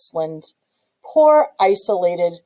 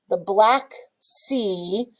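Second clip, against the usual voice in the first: drawn out slowly; much slower than usual. Shown as a demonstration. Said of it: "wordplay black tea / Black Sea".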